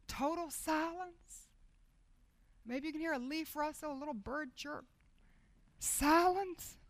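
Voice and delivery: hushed. Acted. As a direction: let the silence settle.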